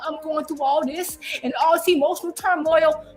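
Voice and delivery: a light mock of a whiny man, only slightly put on. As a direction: toss his own complaint back in a lightly whiny voice. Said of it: "you be the same man on here talking about".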